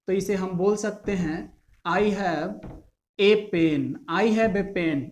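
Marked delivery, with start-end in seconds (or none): 1.9-3.9 a said as a full ay; strong form a. Shown as a demonstration. Teacher showing the strong form of a, ay pen. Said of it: "इसे ए बोलेंगे इसको emphasis करने के लिए". 4.2-5.0 a said as a full ay; strong form a. Shown as a demonstration. Teacher repeating the strong form, ay pen. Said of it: "इसे ए बोलेंगे इसको emphasis करने के लिए".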